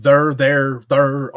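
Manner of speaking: "there" said "thurr"; Saint Louis "there". Shown as a demonstration. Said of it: "do the whole, like".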